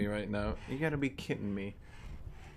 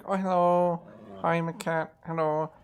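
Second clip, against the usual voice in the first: cheerful cat voice; 6 semitones higher, 4 dB louder than usual. Retold or imitated. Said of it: "they're just like".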